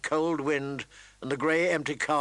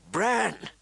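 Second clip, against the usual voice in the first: alarmed cry; 7 semitones higher than usual. Acted. Mother alarmed for son.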